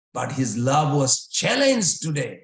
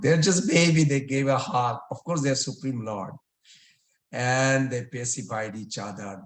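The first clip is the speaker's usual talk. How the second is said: ordinary talk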